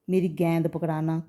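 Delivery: गेंद said as "gaind", with open 'ai'; mispronounced vowel. Retold or imitated. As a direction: imitate the common slip, "gaind" for गेंद. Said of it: "तो ये शब्द गलत है". (गेंद को "गैंद" बोलने की नकल)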